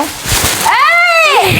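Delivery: sharp high shout of alarm. Real, not acted. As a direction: yell to stop him. Thinks brother is ripping it.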